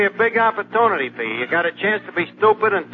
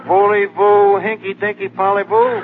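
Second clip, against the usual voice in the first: mock French; 5 dB louder than usual. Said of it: "the trouble is you don't talk French".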